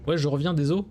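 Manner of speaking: burp through the words; talking while burping. Real, not acted. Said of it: "pardon pour le rototo".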